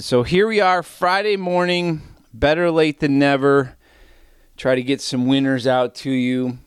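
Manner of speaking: winded after push-ups; out of breath. Real, not acted. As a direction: talk slightly out of breath. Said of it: "apologize if I'm out of breath".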